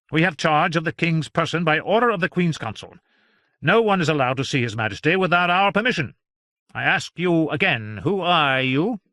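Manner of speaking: high, loud, self-important physician; officious royal doctor; pompous doctor. Acted. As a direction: lord it over the intruder. Voicing Doctor John.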